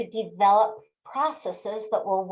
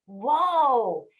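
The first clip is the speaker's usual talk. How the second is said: moderately raised, drawn-out halting call; retold yell. Driver reacting automatically at a ditch, mildly yelling at her car. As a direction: imitate calling a horse to a stop. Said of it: "she reacted by yelling out".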